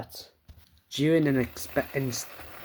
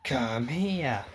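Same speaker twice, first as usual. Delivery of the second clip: softer, tearful call; crying plea; 4 dB quieter than usual. Acted. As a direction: beg him to come, crying. Calling the possessed friend.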